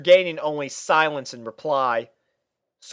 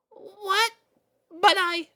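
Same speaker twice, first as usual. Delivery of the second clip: protest; slower than usual. Acted.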